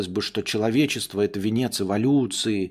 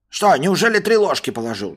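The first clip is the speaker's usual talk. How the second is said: suspicious master; 6 semitones higher, 6 dB louder than usual. Acted. Master doubting.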